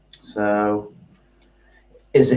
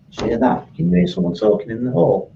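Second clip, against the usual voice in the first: startled; 7 semitones higher than usual. Retold or imitated. Hearing something strange in the house.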